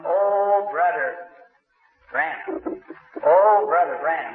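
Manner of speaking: mock holler of the name; retold hollering. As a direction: someone hollering his name for him. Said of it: "I heard somebody hollering".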